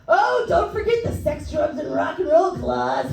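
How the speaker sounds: high-pitched imitation of a yelling tour manager; mock yelling, pitched well up; Tommy Neptune. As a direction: cut in with an excitable high holler. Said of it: "it's more of a yelling".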